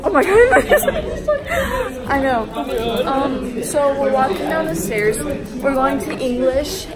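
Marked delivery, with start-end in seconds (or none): 0.0-0.5 surprised. Real, not acted. Sudden shock on stairs. 0.5-2.5 laughing. Real, not acted. Laughing after shock.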